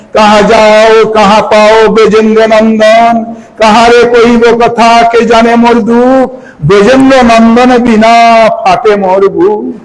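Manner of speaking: slow chanted devotional verse; verse recitation. Acted. Preacher recites Mahaprabhu's lament to the devotees, slowly chanted. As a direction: intone the lines slowly.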